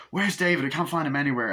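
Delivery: high, urgent retold question; mock worried searching. Friend hunting for missing David, acted worry. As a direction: act out an anxious friend.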